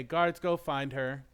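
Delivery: loud royal command; commanding shout. Acted. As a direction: bark orders at the guards. Princess orders guards.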